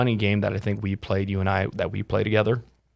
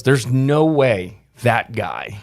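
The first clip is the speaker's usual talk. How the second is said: retold disbelief; 2 semitones higher, 5 dB louder, much slower than usual. Mimics a disbelieving doubter.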